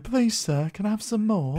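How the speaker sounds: high-pitched mock plea; mock pleading beggar. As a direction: beg like a storybook pauper, hammed up. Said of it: "You might as well be saying".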